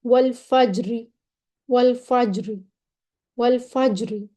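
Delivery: वल फज्री with only a slight, partial i after a thin r; rom on ra. Shown as a demonstration. Teacher demonstrates stopping with rom, slight final vowel. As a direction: recite वल फज्री, barely sounding the closing kasra. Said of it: "थोड़ी सी जेर पढ़ी जाएगी".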